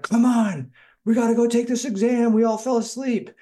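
high, urgent mock-panicked friends; imitated panic. Friends waking the speaker late for the exam, mock panic. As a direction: hurry them along in a high panicked voice. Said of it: "shaking me in a panic".

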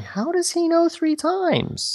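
mock squeak of a question; high squeaky aside. Sarcastic side question about the story, squeaked high. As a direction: jump way up and slow down.

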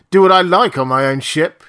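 defiant shout. A narrator's reading. Drunk captain defiant.

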